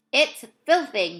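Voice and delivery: sputtered with mouth full; sputtering. Acted. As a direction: spit it out through a mouthful. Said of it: "he sputtered".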